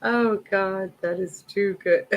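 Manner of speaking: breathless high squeals between laughs; helpless laughing fit, gasping words; after laughing hard. Real, not acted. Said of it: "Oh, my stomach".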